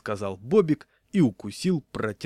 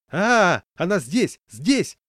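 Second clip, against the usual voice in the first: much louder, higher cry; excited yell; 8 semitones higher, 9 dB louder, much slower than usual. A narrator's reading. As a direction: aufgeregter lauter Schrei. Crowd shouts, dog found.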